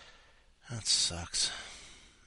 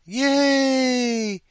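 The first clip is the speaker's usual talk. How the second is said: high, loud, held-out yay; a real burst of delight at the next name; excited cheer; 13 semitones higher, 10 dB louder than usual. Real, not acted. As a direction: cheer her on.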